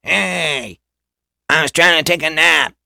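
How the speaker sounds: high, loud, sleepy groggy voice; groggy Rick voice. Retold or imitated. Rick just woken in the car, high and groggy. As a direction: croak it out like you just woke up. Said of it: "his voice is just like this".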